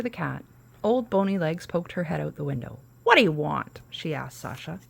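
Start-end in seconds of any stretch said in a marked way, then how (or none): 3.0-3.8 loud gruff witch challenge; witch's demand. Acted. Witch confronting the girl at her window, loud and gruff.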